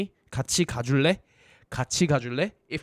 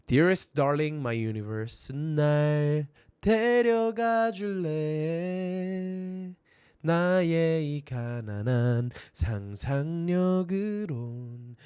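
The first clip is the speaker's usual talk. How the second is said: romantic lyric; 3 dB quieter than usual. Acted. Teacher acts romantic lyric.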